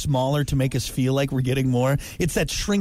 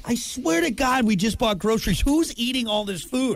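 exasperated; 5 semitones higher than usual. Retold or imitated. Acted exasperated quote.

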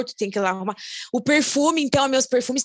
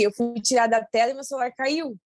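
ordinary delivery

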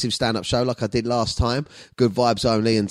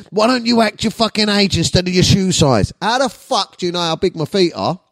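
mock outrage; 5 semitones higher than usual. Reading out angry messages and retort.

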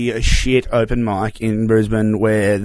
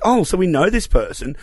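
mildly excited, higher-pitched mum; 5 semitones higher than usual. Retold or imitated. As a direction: imitate a mum getting excited about a find. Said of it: "she got really excited".

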